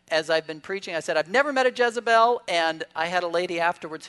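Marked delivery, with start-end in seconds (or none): 1.2-2.4 retold punchline. Retelling his joke from the sermon.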